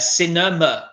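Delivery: "Cinema" as SIN-uh-muh; both last vowels of "Cinema" as "uh"; careful model of "Cinema"; schwa sounds. Shown as a demonstration. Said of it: "Two quite similar phonetic sounds there".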